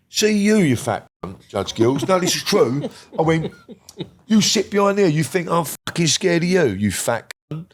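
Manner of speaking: loud, high, slowed mock yell; retold yell at judge. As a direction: hurl it at the judge like in court. Yelling at the judge in dock.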